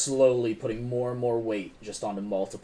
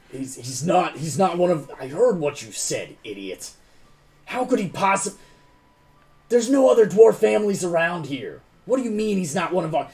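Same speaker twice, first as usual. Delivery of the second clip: louder and higher, building to a rant; angry boss; 7 semitones higher, 8 dB louder than usual. Acted. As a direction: tear into the idiot guard. Boss berates the guard.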